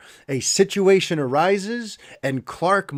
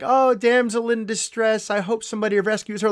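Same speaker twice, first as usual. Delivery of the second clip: higher, quick sing-song mock concern; mock cutesy; 5 semitones higher than usual. Critic mocking a tame reading of the scene, cutesy and higher. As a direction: play a cutesy damsel-in-distress cliché. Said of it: "It's not like a cutesy".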